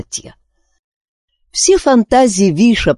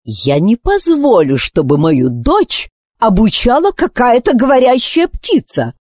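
higher, indignant queen; 9 semitones higher than usual. Acted. Queen refusing a bird teacher, indignant. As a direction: bristle at the idea. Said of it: "возмутилась Психора".

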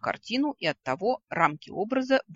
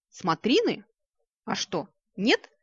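louder, higher, needling questions; snide, raised, teasing query; 5 semitones higher, 5 dB louder, slower than usual. A narrator's reading. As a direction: ask it with mock innocence. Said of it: "ехидно уточнила я".

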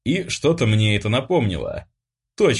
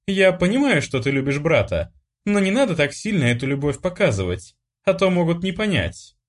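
higher, gently scolding mother voice; a mother mildly reining in her daughter; chiding mother; 8 semitones higher than usual. A narrator's reading. Mother tells her daughter to tone it down, gently chiding.

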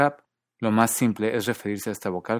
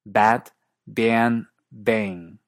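BAT, BAN, BANG in American English, vowel raised before n and ng; American English accent; 4 dB louder, much slower than usual. Shown as a demonstration. Teacher demonstrating an accent to students, American BAT, BAN, BANG. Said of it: "En cierto inglés estadounidense".

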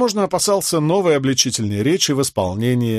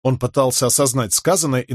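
plain reading voice

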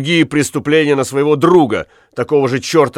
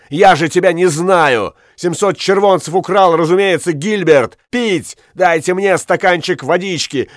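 angry protest; 5 semitones higher than usual. Acted. Accused man yelling at court.

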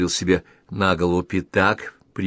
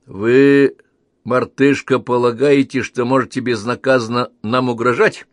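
indignant challenge; 4 semitones higher, 6 dB louder than usual. Acted. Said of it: "заявил соломенный Губерт".

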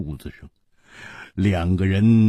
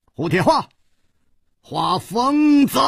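excited shout; 13 semitones higher than usual. A narrator's reading. Rider shouts on spotting an old friend, excited. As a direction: call out a long-lost friend's name. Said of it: "大叫道".

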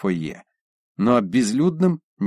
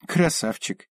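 purring; 6 semitones higher, slower than usual. Acted. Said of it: "мурлыкнула Пухова".

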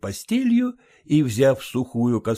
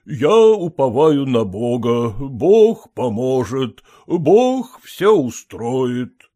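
slow, louder pious assurance; devout; 2 semitones higher, 6 dB louder, slower than usual. Acted. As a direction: lean on God, slow and earnest. Fervent trust in God.

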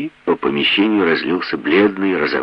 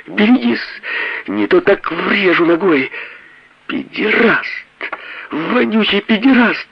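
much higher, hysterical woman's voice. A narrator's reading. Wife hurls insults at her husband, hysterical. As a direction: shriek it like a woman gone wild.

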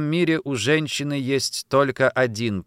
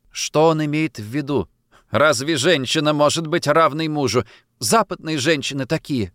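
a touch of a sob in a raised voice; sobbed out; 4 semitones higher, 4 dB louder than usual. Acted. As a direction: say it with mild tearful indignation. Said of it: "всхлипнула я". (со всхлипом, слегка)

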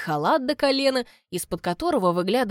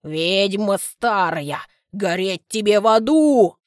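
angry cursing; 5 dB louder, slower than usual. Acted. Old man curses witch.

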